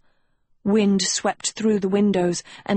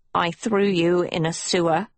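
sniffling. A narrator's reading. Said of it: "Hester sniffled".

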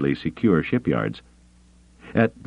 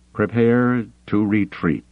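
slow, higher, pained command; pained order; 5 semitones higher than usual. Acted. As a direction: force out the words in pain. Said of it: "The words ached in his throat".

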